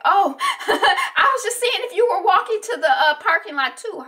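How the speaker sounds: high, loud nervous laugh through the words. Retold or imitated. Doctor bluffing the man following her, nervous laugh. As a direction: laugh it off, scared and high-pitched. Nervous woman confronting stalker.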